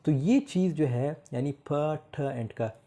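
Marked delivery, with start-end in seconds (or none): none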